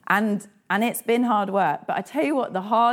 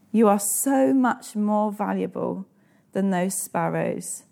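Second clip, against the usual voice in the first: gentle repeat. Shown as a demonstration. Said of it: "Do you need to hear that today?".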